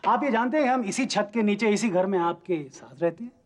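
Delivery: high, hammed-up astonished voice; mock amazement. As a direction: overplay being amazed. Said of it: "लेकिन आप ऐसे क्यों बोल रहे हैं?".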